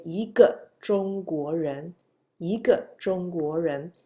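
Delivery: 一 rising before 个 in 一个中国人; second-tone 一. Shown as a demonstration. Teacher repeats example for students, 一 in rising second tone. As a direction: let 一 glide upward in 一个中国人. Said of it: "E becomes second tone".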